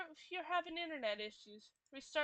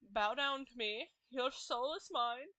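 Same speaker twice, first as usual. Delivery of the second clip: menacing reaper voice; 4 dB louder, slower than usual. Retold or imitated.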